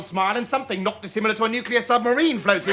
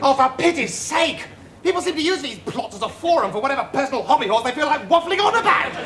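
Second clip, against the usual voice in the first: exasperated outburst; 2 semitones higher than usual. Acted. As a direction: lose patience and end in a shout. Exasperated quarrel with the binman.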